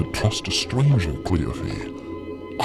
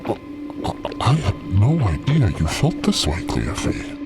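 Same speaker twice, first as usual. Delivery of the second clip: hurt, dignified patience. Acted. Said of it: "hurt and dignity and patience in Steve's voice".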